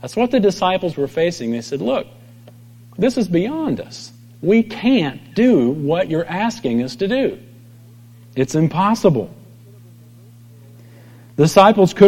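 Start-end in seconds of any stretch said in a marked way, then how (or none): 1.8-9.3 helpless protest. Retold or imitated. Disciples protesting to Jesus.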